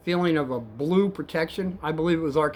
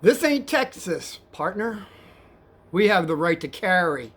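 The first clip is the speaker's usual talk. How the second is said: retold yelling back; 3 semitones higher, 3 dB louder than usual. Cab driver standing up to threatening passenger, yelling back. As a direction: act out a firm yell back. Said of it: "So I yelled back at him".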